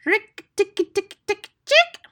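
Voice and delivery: very high, loud staccato chittering cry; mongoose war cry. A narrator's reading. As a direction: chatter it sharply at the top of your voice. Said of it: "his long war cry".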